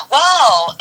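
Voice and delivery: imitating the stunned lawyer; mock stunned wow. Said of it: "she's like".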